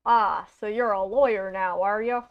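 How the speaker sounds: attempted Southern drawl for a lawyer character. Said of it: "we'll give him a Southern drawl".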